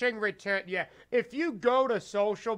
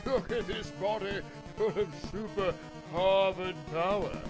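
villain voice. Pretend. Voicing villain Fraser.

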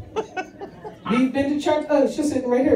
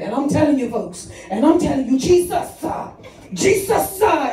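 preacher impression; 3 semitones higher than usual. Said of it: "and he was saying".

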